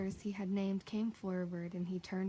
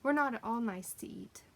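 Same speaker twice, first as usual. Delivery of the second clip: hasty; 4 semitones higher, 6 dB louder than usual. Acted. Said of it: "said Polly hastily".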